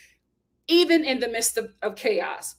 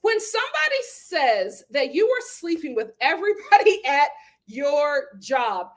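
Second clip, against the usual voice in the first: mock prim question, higher pitch; a lightly voiced higher, innocent question; imitating Doctor Nicole; 6 semitones higher than usual. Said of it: "Doctor Nicole was just like".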